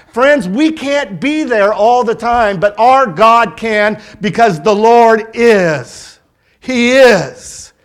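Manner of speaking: slow, drawn-out preacher's declaration; emphatic preaching. Real, not acted. Preacher assuring friends that God can be there, emphatic. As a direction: land each key word with conviction.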